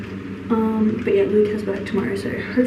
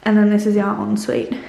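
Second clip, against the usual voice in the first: echoing in a bare room; echoey empty room; 3 dB louder than usual. Real, not acted. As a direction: voice bouncing off empty walls. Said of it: "I'm sorry if it's really echoey in here".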